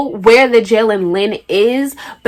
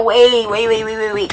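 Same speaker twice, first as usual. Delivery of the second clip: panicked pleading; 3 semitones higher than usual. Retold or imitated. Teen hears father on the call, panicked pleading.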